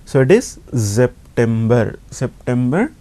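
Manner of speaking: "September" said with a buzzing z at the start; German S as z. Shown as a demonstration. Teacher showing students German S before a vowel. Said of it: "S plus vowel is like za sound".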